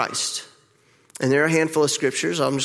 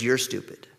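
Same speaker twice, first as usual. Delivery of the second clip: harsh inner voice; 4 semitones lower, 6 dB quieter than usual. Retold or imitated. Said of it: "My inner voice says".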